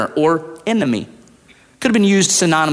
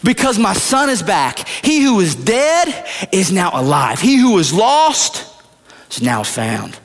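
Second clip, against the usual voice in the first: much higher, calling out slowly while running; father yelling; 8 semitones higher, slower than usual. Acted. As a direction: shout the orders back over your shoulder. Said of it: "he yells back".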